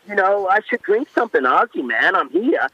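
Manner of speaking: lightly put-on American accent, laid-back. Winemaker imitating a singer's American accent to the radio host, mild American accent. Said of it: "I know I'm really butchering this".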